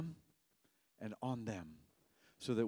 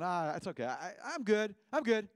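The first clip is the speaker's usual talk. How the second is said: reluctant congregant declining; 7 semitones higher than usual. Acted. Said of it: "For anybody in the room going".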